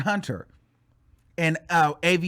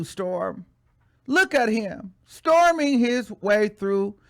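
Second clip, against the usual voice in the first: fake-sweet congratulations, hammed up and higher; mocking read; 4 semitones higher than usual. Reading Tasha K's post to viewers, mock sweetness. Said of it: "So this is what she said".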